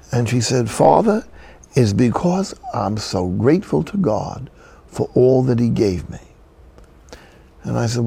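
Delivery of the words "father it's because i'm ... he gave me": put-on elderly Southern African-American woman's accent, lively; old-fashioned Southern Afro-American accent. Old woman telling the priest she's grateful, Southern African-American accent. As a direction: answer in an old-time Southern Black accent. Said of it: "old-fashioned Southern Afro-American accent".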